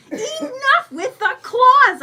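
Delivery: high, loud, drawn-out protest; barked shout. A narrator's reading. Clawed woman scolds the raccoon on her, barking. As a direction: bark it out in exasperation, stretching it. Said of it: "I bark".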